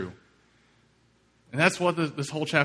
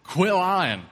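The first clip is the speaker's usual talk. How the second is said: louder, half-joking scold at a lying friend; mock scolding; 3 dB louder than usual. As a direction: scold him loudly but playfully, as if he's teasing you. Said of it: "So I said".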